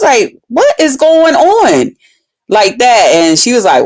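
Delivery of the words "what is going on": slow, high, drawn-out question; retold bafflement. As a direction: stretch out each word in acted disbelief. Retells her baffled question.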